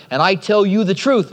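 measured stress across "I tell you the truth"; emphatic assurance. Retold or imitated. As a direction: lean on "truth" with a falling close. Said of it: "Notice his emphasis".

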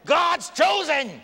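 can't hold it in, cry it out; slow fervent exclamation; fervent shout. Real, not acted. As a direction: burst out high and loud, drawn out. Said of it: "trying to calm myself down".

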